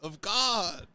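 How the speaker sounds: slow, high cholo drawl. Pretend. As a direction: stretch it out like a cholo. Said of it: "Jesus is just a cholo".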